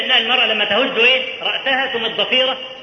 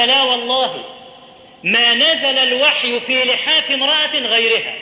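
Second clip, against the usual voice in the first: the Prophet's words; 4 semitones higher than usual. Retold or imitated. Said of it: "قال".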